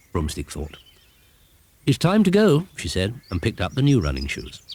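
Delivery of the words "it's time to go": lightly voiced cheerful witch. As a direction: chirp it like a busy little witch. Heggity Haggity voiced.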